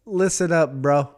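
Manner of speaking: slow, hammed-up Italian-American chef voice; Italian-American accent. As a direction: lecture like a New York Italian cook, slowly.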